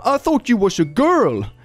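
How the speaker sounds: high, sheepish lad voice; sheepish southern English lad. Retold or imitated. Embarrassed lad apologizes to trans man, sheepish southern English lad. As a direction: backpedal like an embarrassed bloke. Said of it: "what they sounded and looked like".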